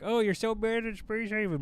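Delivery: high mocking sing-song jeer; mock viewer taunt. Mimicking chat mocking his bad play, high jeer. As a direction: sneer it like a smug critic. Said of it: "we're all like".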